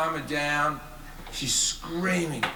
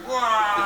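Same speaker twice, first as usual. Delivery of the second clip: mock dodge yelp; 4 semitones higher, 4 dB louder than usual. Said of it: "from the Matrix".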